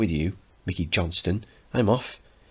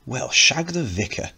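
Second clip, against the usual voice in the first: put-on posh accent; 6 semitones higher than usual. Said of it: "swearing in that posh voice".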